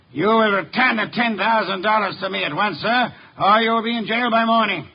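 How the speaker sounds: firm, rising threat; stern ultimatum. Acted. Detective threatens swindlers with jail, stern. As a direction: lay down the ultimatum.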